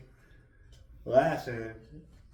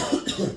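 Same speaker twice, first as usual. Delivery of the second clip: imitated cough; 6 semitones higher, 4 dB louder than usual. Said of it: "every time you cough".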